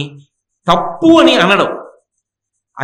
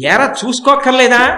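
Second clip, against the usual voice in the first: scolding grandfather; 4 semitones higher, 4 dB louder than usual. Retold or imitated.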